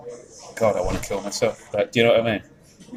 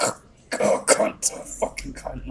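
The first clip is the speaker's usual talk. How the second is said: muttered curses; 3 semitones higher, much slower than usual. Retold or imitated. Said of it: "they're like".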